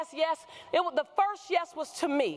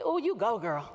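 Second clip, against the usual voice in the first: put-on girlfriends' cheer; 3 semitones lower than usual. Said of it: "they say".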